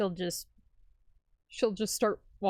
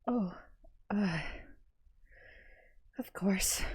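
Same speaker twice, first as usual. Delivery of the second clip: whispering; 6 dB quieter than usual. Acted. Shaken character whispers reply.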